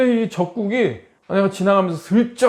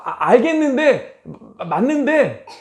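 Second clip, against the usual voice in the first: grudging laugh; 7 semitones higher, 4 dB louder, slower than usual. Retold or imitated. Grudging, half-laughing admission.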